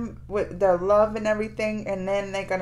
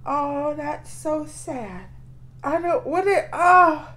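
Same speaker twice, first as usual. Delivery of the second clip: getting teary; 4 semitones higher, slower than usual. Real, not acted. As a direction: let the tears creep into the voice. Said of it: "Now I'm getting teary".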